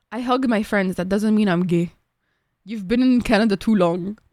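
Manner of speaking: dad's Egyptian accent, lightly put on; a hint of Egyptian-accented dad. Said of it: "I love when you do the voice".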